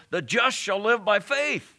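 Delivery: high, emphatic mock yell; retold yell. Preacher retelling Luther's cry on the stairs, a high yell. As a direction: raise the pitch in a retold triumphant cry. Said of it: "He stands up and yells".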